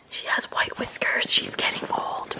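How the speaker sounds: slow hushed whisper; worried whisper. Real, not acted. Owner whispers worriedly about her aging dog. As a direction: whisper it like a sad secret. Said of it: "I'm so afraid".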